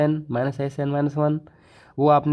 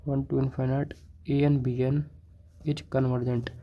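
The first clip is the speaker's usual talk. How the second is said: slow, word by word, long gaps between words; slow dictation; 7 dB quieter, much slower than usual. Shown as a demonstration. Teacher dictating a theorem to students, slow and spaced. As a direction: dictate each word so students can write it. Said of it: "मैं बोलता हूँ, आप उससे लिख सकते हो".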